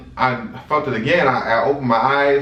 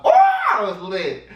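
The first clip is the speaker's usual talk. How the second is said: laughing; 10 semitones higher than usual. Real, not acted. Laughing at drunk memory.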